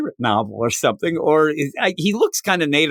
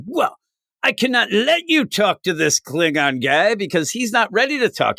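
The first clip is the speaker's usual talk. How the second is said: high doctor voice; 6 semitones higher than usual. Retold or imitated. Doctor blocking Kirk, voiced.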